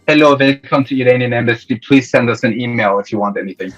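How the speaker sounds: lightly put-on Iranian accent for the embassy clerk; a hint of an Iranian clerk's accent on the phone; imitating an Iranian embassy receptionist's accent; thick Iranian accent. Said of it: "in the thickest Iranian accent".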